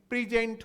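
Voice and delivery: प्रेजेंट said "pri-JENT", short i first; verb pronunciation. Shown as a demonstration. Teacher showing students the verb's sound, प्रेजेंट as "pri-JENT". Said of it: "phonetic transcription है वो".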